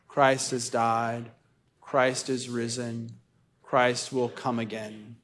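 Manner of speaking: slow, weighty proclamation; solemn proclamation. Acted. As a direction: proclaim each line slowly. Mystery of faith proclaimed slowly.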